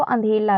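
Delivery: अंधेला with a clear l in place of r; अंधेला, the slip swapping रा for ला. Shown as a demonstration. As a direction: say अंधेला, ला instead of रा. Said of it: "रा की जगह पे ला बोल देते हैं".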